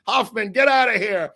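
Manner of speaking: high-pitched mock yell. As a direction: imitate an outraged yell, pitched well up. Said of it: "he's yelling".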